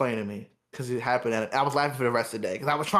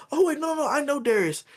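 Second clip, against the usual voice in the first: higher, sweet mock lady voice; a customer sticking up for the cashier, high and sweet; lady defending me; 5 semitones higher than usual. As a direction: chirp it up high in her defence. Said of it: "And she goes".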